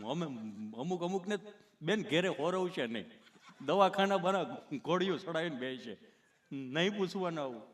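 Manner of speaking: lightly voiced halting stammerer; a slight catch between phrases; tongue-tied Gabho. Gabho explaining to the nurse, mildly stammering. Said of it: "ચોંટે અટકે".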